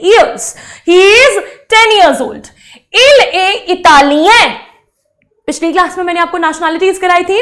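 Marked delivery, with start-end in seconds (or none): 3.0-4.6 slow model sentence. Shown as a demonstration. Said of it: "teacher models French sentence".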